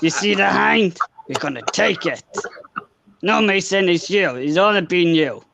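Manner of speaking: lightly voiced army sergeant; hint of a tough sergeant impression; amateur take on a game soldier; Sergeant Frank Woods. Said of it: "can you do him? As, as, as Frank, as Frank, Sergeant Frank Woods".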